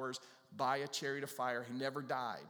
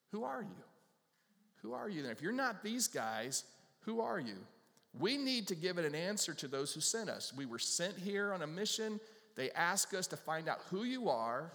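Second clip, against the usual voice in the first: much higher, urgent demand; demanding leaders; 5 semitones higher than usual. Acted. Sent leaders demanding John name himself, high and urgent. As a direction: insist on an answer, pitched up high.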